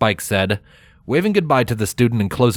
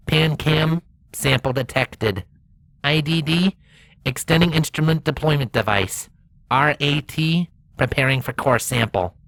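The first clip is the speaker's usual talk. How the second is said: lightly robotic rover; 4 semitones higher than usual. Acted. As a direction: speak like a rover reporting data.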